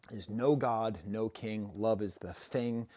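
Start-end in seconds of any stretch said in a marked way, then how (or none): 1.7-2.9 "thing" said slowly as "fing"; slow down and give "thing" an F; TH fronting. Shown as a demonstration. Quoting the album's theme, "thing" said as "fing". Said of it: "replacing T H with F".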